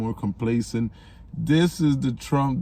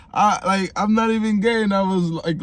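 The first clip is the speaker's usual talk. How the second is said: worked up; 7 semitones higher, 4 dB louder than usual. Real, not acted. Heated reaction, pitch jumps.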